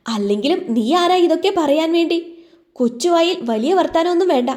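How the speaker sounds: high, sharp angry rebuke. A narrator's reading. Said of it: "Malathi ദേഷ്യത്തോടെ പറഞ്ഞു". (ദേഷ്യത്തോടെ ഉയർന്ന സ്വരത്തിൽ ശാസന)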